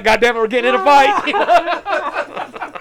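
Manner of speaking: slow, high mock curse of dread, laughing; Chris's outburst. Friend groans that a fight is coming, slow and high. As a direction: drag it out like doom is coming. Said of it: "Chris was like".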